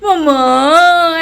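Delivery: long, drawn-out mama, slow and whiny; clingy baby "mama". Retold or imitated. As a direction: stretch it out like a toddler hugging mom. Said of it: "जैसे होता है ना, लिपट जाते हैं अपनी माँ के". (माँ से लिपटती बच्ची की तरह खींचकर "मम्मा")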